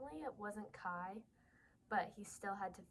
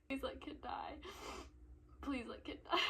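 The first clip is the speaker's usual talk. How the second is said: giggling, pleading whisper; laughing plea; 4 semitones higher than usual. Real, not acted. Reader laughing while begging for a death, giggling. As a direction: beg through laughter.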